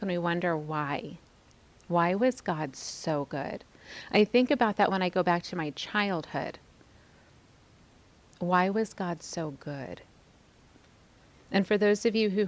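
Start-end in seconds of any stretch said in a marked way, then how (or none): 1.9-3.6 slow and soft, marvelling; awed, hushed wonder. Real, not acted. Speaker marvelling at God's goodness, slow soft awe. 8.4-10.0 slow and soft, marvelling; awed, hushed wonder. Real, not acted. Speaker marvelling at God's goodness, slow soft awe. Repeats it, thinking of childhood.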